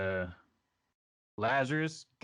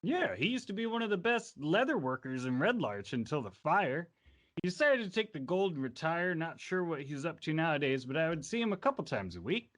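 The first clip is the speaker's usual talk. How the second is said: higher-pitched chatty witness, building to protest; lightly voiced innkeeper witness; 5 semitones higher than usual. Innkeeper witness telling the court about Erebus, lightly voiced and chatty. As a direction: vouch eagerly for an old friend.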